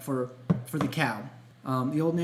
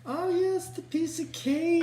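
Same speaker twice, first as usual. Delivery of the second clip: pitched way up, sing-song intro; high, drawn-out show-segment call; excited announcement; slower than usual. Real, not acted.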